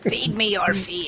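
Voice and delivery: slow, eerie creature voice; shadow creature. Pretend. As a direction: demand it like a fear-eating shade. Joins spooky creature joke.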